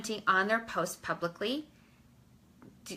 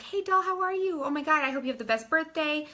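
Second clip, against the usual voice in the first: much higher, bubbly and bright; excited birthday wishes to a friend; gushing friendly greeting; 6 semitones higher than usual. Shown as a demonstration. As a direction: gush like talking to a friend. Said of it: "that's just how I would talk".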